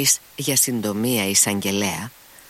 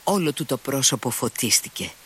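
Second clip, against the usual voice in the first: plain reading voice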